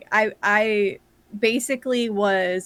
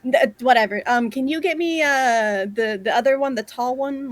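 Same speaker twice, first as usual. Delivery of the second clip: higher, louder, brash calling out; rude mayor; 4 semitones higher, 6 dB louder than usual. Acted. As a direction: bark at the yellow one like a pushy mayor. Mayor voice continues giving orders.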